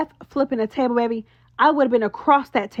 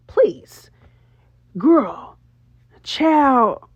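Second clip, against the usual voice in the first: dismissive please; 3 dB louder, much slower than usual. Real, not acted. Dismissing Meatball.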